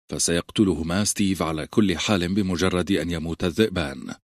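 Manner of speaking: usual speaking voice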